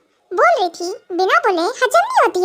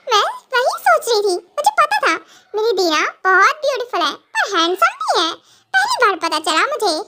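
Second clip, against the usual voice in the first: giggly mock amazement with pitch swoops; joking, teasing. Wife teasing husband who offers to be her sister, playful and giggly. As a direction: tease him playfully, laughter in the voice. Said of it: "मजाक के mood में".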